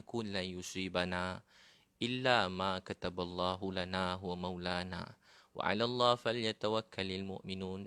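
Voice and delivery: slow, drawn-out chanted Arabic verse; Quran recitation. Acted. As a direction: intone the verse slowly like tilawah.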